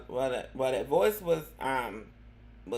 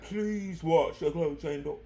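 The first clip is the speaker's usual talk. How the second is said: mock subway announcer. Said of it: "she'd be like".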